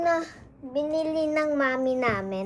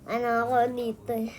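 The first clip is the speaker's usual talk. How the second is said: missing front teeth; 3 semitones lower than usual. Real, not acted. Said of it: "bungal ako".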